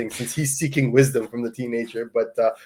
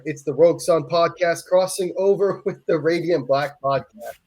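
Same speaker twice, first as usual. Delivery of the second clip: laughing; 6 semitones higher than usual. Real, not acted. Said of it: "Hard to say that without laughing".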